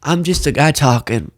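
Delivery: lightly voiced guy ducking blame; mock excuse. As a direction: imitate someone shrugging off responsibility. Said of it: "when they get in trouble, go".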